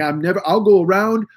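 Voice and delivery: exaggerated Canadian rant; Canadian accent. Friend swearing off roundabouts, Canadian accent. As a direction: imitate an indignant friend in a mock Canadian accent. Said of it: "that's me doing a Canadian accent".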